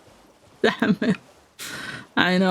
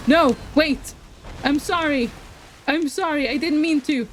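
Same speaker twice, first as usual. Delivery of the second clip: mock pleading; 7 semitones higher than usual. Pleading with game enemy.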